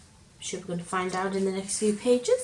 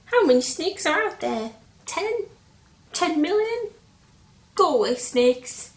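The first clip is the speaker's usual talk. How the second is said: loud and higher, panicky; scared calling out; 6 semitones higher, 6 dB louder than usual. Acted. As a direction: shout through the door at the snakes. Scared Square calls out.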